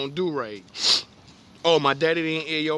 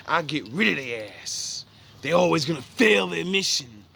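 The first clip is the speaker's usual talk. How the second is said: lightly voiced dismissive god; a hint of a scornful God; God's voice; 3 semitones higher than usual. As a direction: scoff like an angry almighty. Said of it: "so the Most High said".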